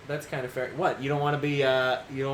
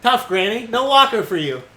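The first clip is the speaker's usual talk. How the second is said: louder, higher taunting nurse; mock harsh scolding; 5 semitones higher, 6 dB louder than usual. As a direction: scold her with fake toughness. Mocking a grandmother, louder.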